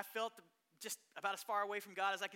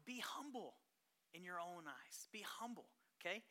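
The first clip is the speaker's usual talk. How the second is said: hushed, intimate urging; whispered reminder to be humble; soft hushed plea; 6 dB quieter than usual. Real, not acted. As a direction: drop to a near whisper. Pastor softly urges humility.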